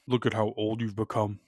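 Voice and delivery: soft, low villain voice; a hint of a masked villain; Kylo Ren. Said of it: "sound like Kylo Ren".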